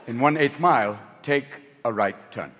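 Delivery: a prim British navigator, sniffy; bitchy English voice. Retold or imitated. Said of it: "it's a bitchy English voice".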